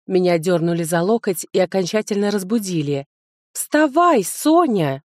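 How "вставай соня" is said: high, insistent wake-up call. A narrator's reading. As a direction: shake her awake with the voice. Friend waking her up. (громко будит подругу)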